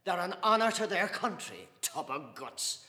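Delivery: loud, high, laughing ridicule; mocking father. Father ridiculing a priest to Mr Casey, mocking laughter. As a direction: savour the mockery of the fat priest.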